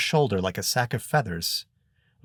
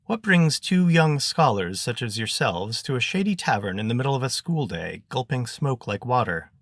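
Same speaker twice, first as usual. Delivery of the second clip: lightly voiced Zek; 3 semitones higher than usual. Zek questioning two truant youths in the wagon, lightly performed. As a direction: lightly act a wordy scholar quizzing youngsters.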